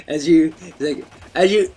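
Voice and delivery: hint of a nerdy kid voice; nerdy kid impression. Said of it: "he sounded so nerdy".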